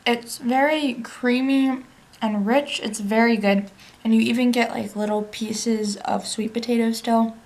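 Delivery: talking while chewing; words round a mouthful; mouth full. Real, not acted. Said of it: "Sorry, I'm chewing with my mouth open".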